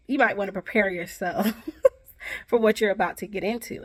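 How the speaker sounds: a wry warning that breaks into laughter; laughing warning. Real, not acted. Warning future grad students to brace themselves, laughing. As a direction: laugh through the friendly warning.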